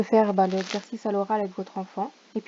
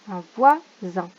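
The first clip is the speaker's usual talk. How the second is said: slow careful reading; 7 dB louder, slower than usual. Shown as a demonstration. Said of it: "word to sort by sound".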